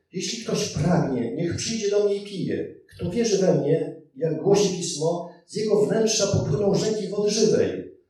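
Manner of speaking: Jesus cries out loudly to the crowd; loud proclamation. A narrator's reading. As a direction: proclaim it across the festival. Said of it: "głośno zawołał".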